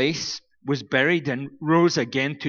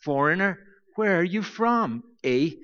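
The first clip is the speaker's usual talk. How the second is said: mock polite greeting; 3 semitones higher than usual. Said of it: "it's probably helpful to say".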